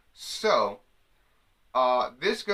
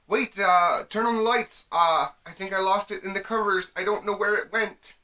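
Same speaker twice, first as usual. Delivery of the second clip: high, louder panicked call for the lights; mock yell; 7 semitones higher, 5 dB louder than usual. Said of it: "you have to yell".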